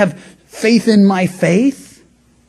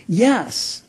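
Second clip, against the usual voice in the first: normal talking voice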